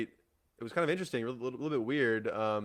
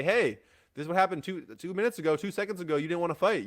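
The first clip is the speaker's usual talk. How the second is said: imitated indignant challenge, higher and louder; frustrated protest; 7 semitones higher, 4 dB louder than usual. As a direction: argue back as the aggrieved fighter. Acts out fighter's frustrated protest.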